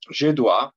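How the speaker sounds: Je dois with dois said dwa, final s silent; French dois pronounced dwa. Shown as a demonstration. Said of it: "de nuevo tenemos la O I, que es ua".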